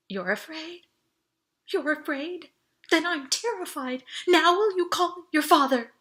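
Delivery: high, building to loud, frantic; rising panic. Acted. Panicked escalation in cart.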